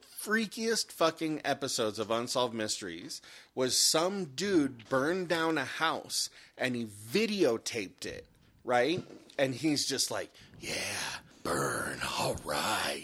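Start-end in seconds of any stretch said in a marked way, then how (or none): 10.6-13.1 very low, sinister, creepy voice. Retelling a man from a TV episode videotaping a house fire, imitating a creepy voice. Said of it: "you got a fucking creepy voice".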